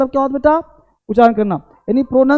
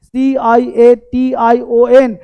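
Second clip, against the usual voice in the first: letters spelled slowly one by one; slow spelling out; much slower than usual. Shown as a demonstration. Teacher spelling the wrong word slowly for students. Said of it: "देखो word क्या बोलते हैं".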